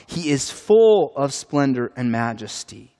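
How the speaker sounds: settled, declarative statement of faith; firm affirmation. Real, not acted. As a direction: state it as certain truth. Affirming of God what was questioned.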